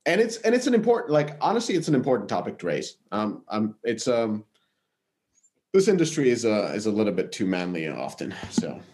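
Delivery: roomy gym echo; talking in an echoey gym. Real, not acted. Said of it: "who's fucking recording from the gym".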